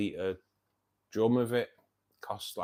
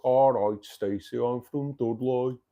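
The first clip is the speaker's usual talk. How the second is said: slow, drawn-out Black Country greeting; lightly put-on Black Country accent, stretched slowly; 2 semitones higher, 6 dB louder, slower than usual. Teasing a work colleague called Stacey in a mild Black Country accent. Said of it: "So I used to always go".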